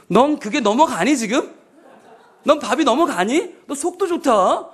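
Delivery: lightly acted scolding mother; sarcastic mother. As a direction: needle the child like an exasperated mum. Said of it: "이렇게 나오는 거죠".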